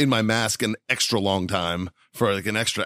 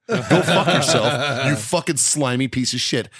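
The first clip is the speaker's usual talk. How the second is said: retold angry outburst; 3 semitones higher, 3 dB louder, slower than usual. Man retelling cursing out the plane neighbour, mock angry. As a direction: spit it at her like she ruined your flight. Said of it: "And I'm just like".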